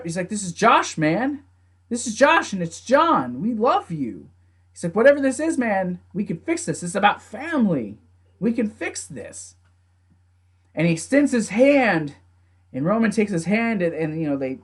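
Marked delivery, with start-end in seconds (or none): 0.3-9.5 higher-pitched mild imitation of a plea; earnest pleading. Jimmy telling Roman they can fix this, pleading. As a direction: plead with family to come back round.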